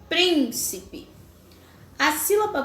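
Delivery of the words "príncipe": "príncipe" with a high, held first syllable; stressed syllable emphasized. Shown as a demonstration. Teacher showing pupils the strong syllable, stress on PRÍN in "príncipe". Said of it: "pronunciadas com mais intensidade".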